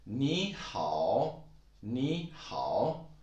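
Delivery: 你好 with 你 rising, 好 dipping; tone demo. Shown as a demonstration. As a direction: model 你好 clearly. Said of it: "the one that a lot of people know".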